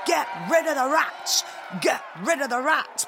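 high-pitched protest chant; crowd shouting. A narrator's reading. Townspeople protesting at the mayor's house, shouting. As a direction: shout it like an angry mob. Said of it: "Some of them were shouting".

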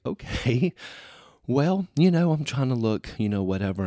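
high, loud, laughing mock-indignant self; mock defensive reply. Answering husband's teasing in a high, laughing, indignant voice. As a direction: play yourself flustered and laughing at your husband. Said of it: "And so I sit there and I'm like".

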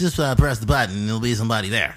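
fast nasal-free nerd impression, giggling; nerdy voice. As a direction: do the nerd from The Simpsons. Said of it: "a little nerdy voice".

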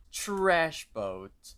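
proudly stretched-out reveal; dramatic reveal. Retold or imitated. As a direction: announce the name with a flourish. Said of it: "he tr-, pauses for a second".

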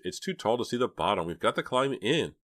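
urging. A narrator's reading. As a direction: press them to get moving. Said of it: "Jade urged".

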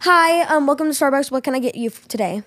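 lightly voiced drive-thru greeter; a hint of a customer-service lady; Starbucks lady. Drive-thru worker greeting the customer, lightly voiced Starbucks lady. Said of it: "I'll be the Starbucks lady".

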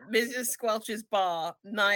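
slow, deliberate scene-heading read; screenplay slug line. Acted. GM opening the scene like a screenplay, slow and deliberate. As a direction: announce the setting slowly like a screenplay. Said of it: "it's a screenplay".

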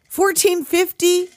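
can't believe that price; incredulous. Real, not acted. Host balks at the mechanic's bill: incredulous. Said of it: "incredulous repeat of price".

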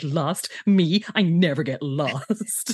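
mock cocky denial, last words drawn out; defensive dickhead. Todd answers warning he could get lost, defensive. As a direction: imitate an offended show-off. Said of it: "goes all defensive dickhead".

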